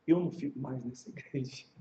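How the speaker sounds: low, soft quoted refusal; muted retold complaint. Offended member refusing to stay, low and subdued.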